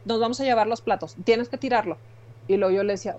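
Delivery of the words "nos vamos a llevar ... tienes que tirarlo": bossy nurse. Retold or imitated. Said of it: "una enfermera".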